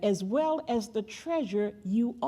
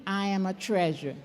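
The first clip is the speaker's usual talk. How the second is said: lower, firm declaration; like you mean it; 4 semitones lower than usual. Shown as a demonstration. Preacher showing congregation how to affirm themselves, like she means it. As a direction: say it with conviction, pitch dropped. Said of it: "Say it like you mean it".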